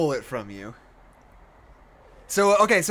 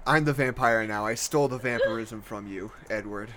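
dramatic vampire line; 5 semitones lower, 5 dB quieter than usual. Pretend. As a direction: deliver it like a brooding vampire. Reading Bella's line aloud.

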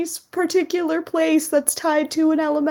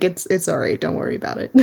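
low, hushed reassurance; gently calm a nervous friend; reassuring; 7 semitones lower than usual. Acted. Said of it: "nudge him a little bit reassuringly".

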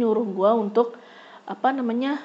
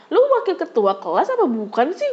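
heated scolding; 6 semitones higher, 3 dB louder than usual. Retold or imitated. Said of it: "gue terpancing emosi".

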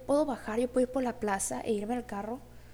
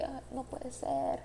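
panicked; 3 semitones higher, 4 dB quieter, much slower than usual. Retold or imitated. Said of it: "se apoderó de mi mente y fue como que".

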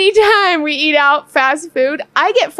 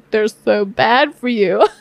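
slow, lower, mocking imitation; mocking husband; 5 semitones lower, slower than usual. Wife mocking husband's hypocritical fry warning, slow and low. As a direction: parody his preachy warning. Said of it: "even though he's like".

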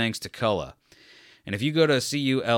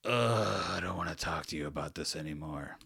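annoyed listener; 3 semitones higher than usual. Retold or imitated. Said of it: "And people go".

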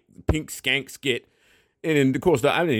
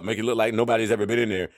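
normal talking voice

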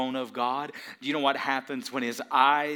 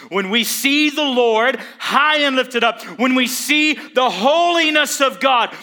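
higher, louder sermon climax; preaching at full force; 11 semitones higher, 14 dB louder than usual. Acted. Pastor to congregation about Isaiah seeing God's holiness, preaching at full force. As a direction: drive the question home, shouting.

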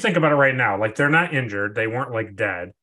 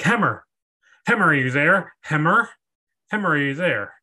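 raised voice hailing over radio; calling over comms; 6 semitones higher, 4 dB louder than usual. Retold or imitated. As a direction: call out to a missing crewman. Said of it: "he's like".

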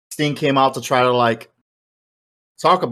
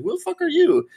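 mock angry shout. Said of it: "that guy got all mad".

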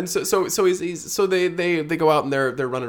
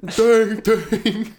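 bell imitation; 6 semitones higher, 4 dB louder than usual. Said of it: "she rings a big bell".

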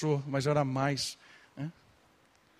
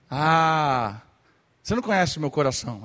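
louder, fast mock whine; mocking retort; 5 dB louder than usual. Sulky worshipper brushing off the preacher, mock whine. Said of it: "tá cantando, tá assim".

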